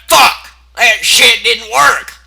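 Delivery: high, loud hammed-up angry curse; pony cursing. Pony cursing the failed shotgun, loud and slow. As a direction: spit the curse out, then drag the rest slowly. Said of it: "She's like".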